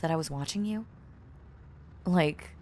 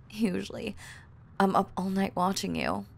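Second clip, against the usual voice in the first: usual speaking voice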